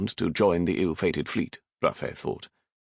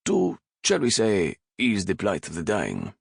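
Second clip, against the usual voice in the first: wicked blandness; 3 semitones higher than usual. Acted. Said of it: "with a wicked blandness".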